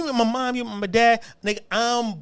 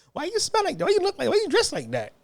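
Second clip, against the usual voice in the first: mock taunt; 9 semitones higher than usual. Acting out bullies' taunting questions.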